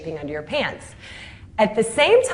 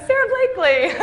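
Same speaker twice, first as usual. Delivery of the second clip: name squeaked much higher and louder; embarrassed squeak; 13 semitones higher, 4 dB louder than usual. Retold or imitated. Third time telling the manufacturers it's just her, squeaky and sheepish. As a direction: squeak it out, sheepish and mock-small. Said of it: "And I'd go".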